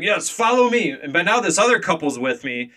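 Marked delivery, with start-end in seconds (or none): 0.0-0.9 high put-on foreign kid voice; Russian kid. Storyteller mimicking the Russian boy leading them off, high-pitched. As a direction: pitch it up, imitating an eager helper. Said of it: "And he's like".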